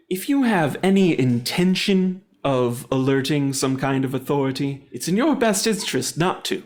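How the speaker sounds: lightly menacing warning, rising at the end; intimidating. Acted. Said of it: "try to keep intimidating him".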